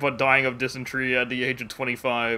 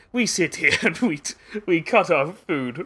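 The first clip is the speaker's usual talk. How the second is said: higher-pitched, slowed cat-person voice; Khajiit; 4 semitones higher, 3 dB louder than usual. Acted. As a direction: put on a higher Khajiit character voice. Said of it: "camp of Khajiit you can find".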